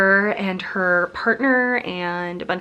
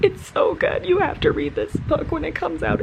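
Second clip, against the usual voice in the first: excited gushing; 9 semitones higher than usual. Real, not acted. Gushing about the book.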